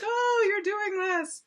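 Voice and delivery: high, drawn-out "aha" of discovery; mock opponent voice. Game explainer imitating Steve guessing the secret pick, mock opponent voice. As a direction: put on a slow, high-pitched voice for the rival. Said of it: "do I have to do that voice".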